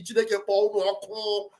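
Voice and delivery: a curse under the breath; muttered curse. Retold or imitated. Cursing the movement's enemies.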